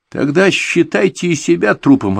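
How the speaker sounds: angry shout. A narrator's reading. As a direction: spit the threat out in rage. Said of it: "разозлившись, крикнул молодой". (злобный крик)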